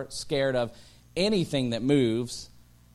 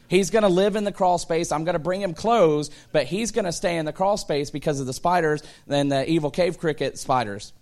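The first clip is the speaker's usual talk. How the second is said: mock panic; 4 semitones higher, 4 dB louder than usual. Panicked inner monologue.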